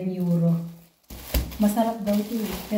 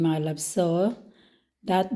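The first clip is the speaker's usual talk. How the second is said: ordinary talk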